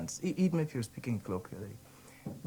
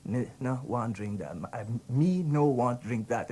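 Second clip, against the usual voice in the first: Guyanese Creole; slower than usual. Shown as a demonstration. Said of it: "You say".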